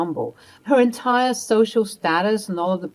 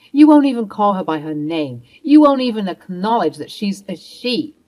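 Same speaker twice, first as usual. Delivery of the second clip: raised, accusing voice, louder; angry retort; 6 dB louder than usual. Acted. Mia confronting her mother-in-law, angry and raised. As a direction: snap back at her with hurt anger.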